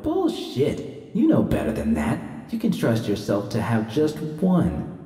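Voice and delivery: hushed, torn inner argument, voice swinging up and down; tense inner voice. A narrator's reading. Judy's craving and conscience argue in her head, hushed and torn. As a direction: urge and refusal battling in her head.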